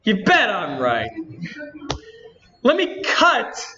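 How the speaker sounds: lightly voiced indignant game girl, slightly lifted; a hint of a peeved anime-game heroine; Natsuki voice. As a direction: complain to the audience in a mild character voice. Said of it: "doing the stupid voice".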